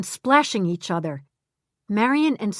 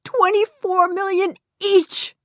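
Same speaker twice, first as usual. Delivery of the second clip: higher, louder urgent call of her name; crying out; 12 semitones higher, 4 dB louder than usual. Acted. Harvey on the phone calling Glenda, urgent cry. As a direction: grab her before she hangs up.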